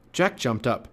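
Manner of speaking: usual speaking voice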